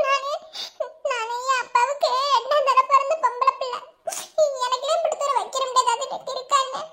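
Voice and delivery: high, tearful complaint; wife sobbing over the function; crying. Acted. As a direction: whimper through every phrase. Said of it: "அழுகாம பேசாம இருப்பல".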